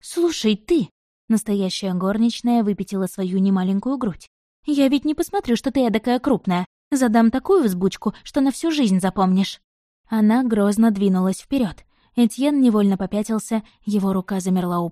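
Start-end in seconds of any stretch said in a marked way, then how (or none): 0.0-9.6 threatening maid. Acted. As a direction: square up and threaten with a scolding maid's bark. Maid threatens the disguised Etienne.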